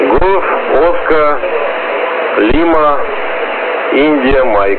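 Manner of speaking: slow, deliberate radio spelling. Real, not acted. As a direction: spell each letter clearly over the radio. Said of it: "точку Галим по буквам". (медленно, по буквам)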